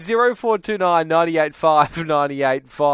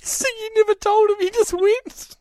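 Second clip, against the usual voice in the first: much higher, laughing through the question. Real, not acted. Host to caller who fled on the plane, laughing. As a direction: ask it through real laughter.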